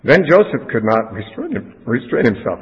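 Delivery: fighting back tears while reading aloud; choked up. Real, not acted. Preacher reading Joseph's story to the congregation, choking up. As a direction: voice catching, breaking off mid-word. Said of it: "and I can't either".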